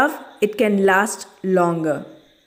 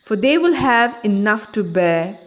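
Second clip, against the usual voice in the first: poem recitation. Acted. Teacher recites poem to children.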